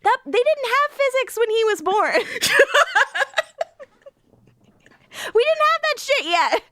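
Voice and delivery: high, laughing rant; laughing exasperation. Retold or imitated. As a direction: squeal through the laughter, way up high. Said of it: "And I'm like".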